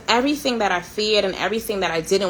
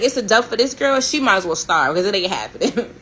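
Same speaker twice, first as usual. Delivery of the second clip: laughing dismissal. Retold or imitated. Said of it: "I was like".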